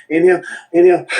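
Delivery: two sharp sniffs in; snatch two breaths in fast; quick double inhale. Shown as a demonstration. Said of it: "what I mean is like this".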